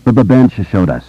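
put-on stammering boy answering; halting stutter. A narrator's reading. Stuttering boy's dialogue in narration.

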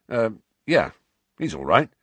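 gruff. Acted. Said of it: "said Ron gruffly".

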